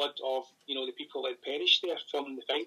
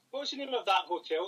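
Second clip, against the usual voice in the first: higher, calling across the room; 5 semitones higher than usual. Real, not acted. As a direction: call the question to someone nearby. Calls out to Karen nearby.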